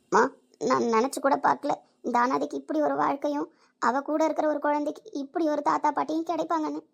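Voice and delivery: a touch of tears, moved and grateful; overwhelmed with gratitude, mildly tearful. Acted. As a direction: speak as tears start to come. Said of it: "ஏன் அழுகுற?".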